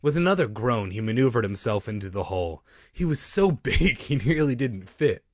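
livelier reading with a lift on "so big"; misread take. Shown as a demonstration. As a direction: read it too animatedly, leaning hard on "so". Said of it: "Sorry, I read that part wrong".

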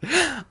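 high, wordless giggle; short tittering laugh. Real, not acted. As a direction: break into a brief high laugh. Own laugh after the sung bit.

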